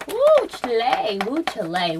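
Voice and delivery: shaking it off. Real, not acted. Shaking off tears on camera.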